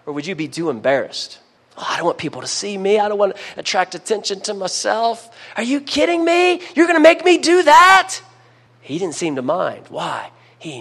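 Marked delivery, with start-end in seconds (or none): 1.8-8.2 mock whiny objection, lightly voiced; a hint of a sheepish man complaining; imagined reluctant man. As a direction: play the embarrassed cripple protesting, half-joking. Imagined embarrassed man's objection.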